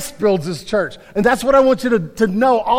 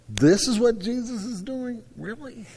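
imitated disbelief, dropping to a very soft "Really?"; mock incredulous; 3 semitones higher, 5 dB quieter than usual. Preacher voicing people who look at the church, mock incredulous. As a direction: question it like a baffled doubter.

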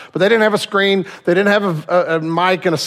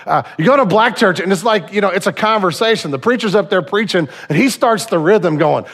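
ordinary delivery

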